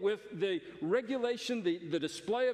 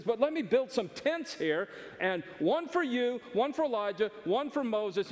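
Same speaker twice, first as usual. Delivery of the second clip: higher-pitched, keen offer; eager Peter; 3 semitones higher than usual. Acted. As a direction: list the offer eagerly, lifting each phrase. Peter eagerly offering to build tents.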